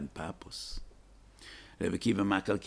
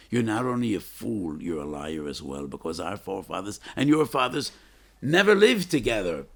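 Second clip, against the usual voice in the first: indignant rebuke; 7 dB louder than usual. Acted. Speaker imagines fish rebuking the fox.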